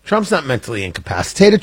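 usual speaking voice

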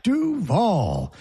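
Duval swooping down and up like a U; mock Duval in one rounded slide; U-shaped Duval. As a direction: imitate Duval with a long curved VAL. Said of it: "he made it just a U".

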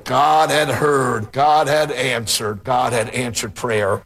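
slow, deliberate stress on God; preaching emphasis. Real, not acted. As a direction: lean on God each time, slowly. Preacher building the point slowly.

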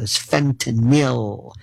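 "fentanyl" said slowly with the ending "-nil"; careful, corrected "fentanyl". Shown as a demonstration. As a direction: draw out "fentanyl" and end on "nil". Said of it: "like they say fentanyl".

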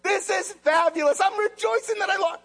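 high, hammed-up fake joy; sarcastic mock cheer. Mock cheer over lost job.

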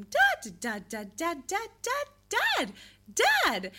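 babbling da climbing high into dad; baby babble. Shown as a demonstration. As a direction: babble da, da, then land on dad. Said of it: "they go from".

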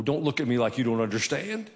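usual speaking voice

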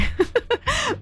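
high, bubbly giggle; laughing at a silly nickname; amused laugh. Real, not acted.

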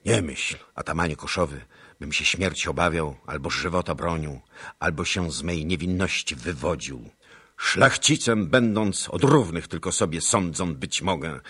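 lifted, proud and defiant nobleman; proud defiant speech. A narrator's reading. Captive noble defying the atamans, proud and loud. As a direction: stand tall and defy the Cossack chiefs. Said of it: "i tak mówił".

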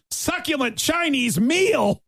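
high, slow hammed-up shout; mock yell. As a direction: belt it out like a meme. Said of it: "he yelled at finish".

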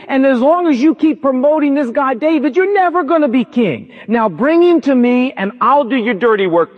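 hammed-up furious Saul cursing Jonathan; mock furious king. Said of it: "Saul went ballistic".

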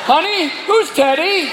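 high, slow, pointed query; suspicious question. Acted. Husband asks wife about Teddy, slow and suspicious.

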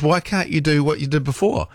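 mildly worked-up complaint; exasperated demand. Retold or imitated. Acted exasperated quote to phone.

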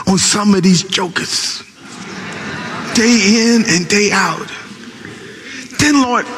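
a lightly voiced aggrieved prayer; complaint poured out to the Lord; complaining prophet. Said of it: "he began to complain".

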